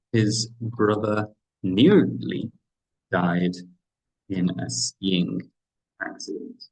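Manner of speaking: nearly held slow and rising, then a pause before died; suspenseful model sentence, paced out; slow dramatic buildup. Shown as a demonstration. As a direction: draw out nearly, then drop died after a beat. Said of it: "makes the listener go through a".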